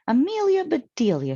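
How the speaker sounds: loud, high call to Amelia Bedelia. A narrator's reading. Amy calling from the back door, loud and high. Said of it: "she called".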